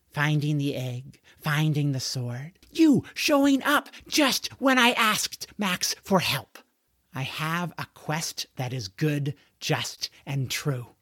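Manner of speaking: lightly voiced boy hero, building then solemn; earnest questing George. George explaining why his quest fits, earnest. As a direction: make the case with growing conviction.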